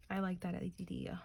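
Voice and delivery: tripping over the words; stumbling stutter on a phrase. Real, not acted. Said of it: "I don't know why I'm stuttering".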